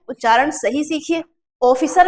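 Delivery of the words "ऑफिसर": ऑफिसर as 'OH-fee-sar'; wrong o vowel. Shown as a demonstration. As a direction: begin ऑफिसर with a closed o. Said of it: "भी नहीं होता".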